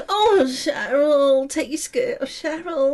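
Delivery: lightly moaned imitation, drawn out at first; mock a lovestruck man pining in bed; mock moaning. Teasing co-host about his night-time longing, mock moaning. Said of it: "I've heard you at night".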